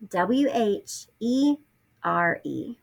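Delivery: letters drawn out slowly; slow spelling. Shown as a demonstration.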